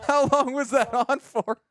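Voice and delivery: autotuned high squeaky voice; a singer's voice filter. Real, not acted. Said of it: "sounds like T-Pain".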